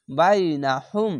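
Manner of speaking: বাইনাহুম chanted slowly, vowels drawn long; Quranic recitation. Shown as a demonstration. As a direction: recite slowly, stretching each syllable. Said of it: "হা মিম পেশ হুম". (ধীরে টেনে তিলাওয়াত)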